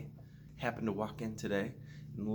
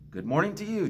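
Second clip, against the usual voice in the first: Jamie's cheery greeting; 11 semitones higher, 5 dB louder, faster than usual. A narrator's reading. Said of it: "Jamie said".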